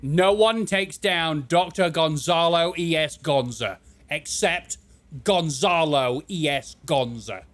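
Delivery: slow, grand reread of the villain's boast; mock grand doctor line. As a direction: savour every word like a proud villain. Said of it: "that is the greatest line I've ever heard".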